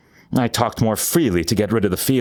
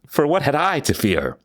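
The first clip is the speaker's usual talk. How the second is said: higher, smug rhetorical question, leaning on what; smug confidence; 6 semitones higher than usual. Acted. Murderer smiling at the police, smug and higher. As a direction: toss it off as if nothing could touch you. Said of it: "I smiled".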